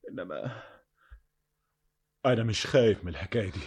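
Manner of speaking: low, hushed, halting; soft confession. Acted. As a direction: confide his fear in a near whisper. Confessing softly to beloved. (اعتراف بصوت واطي)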